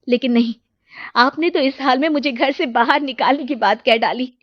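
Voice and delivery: defiant and wounded; hurt anger. Acted. Wife telling husband he abandoned her, angry and hurt. Roli angrily answers husband.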